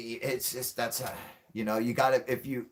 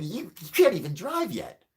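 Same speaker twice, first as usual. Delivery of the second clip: put-on scolding a teenager; 7 semitones higher than usual. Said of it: "I'm like".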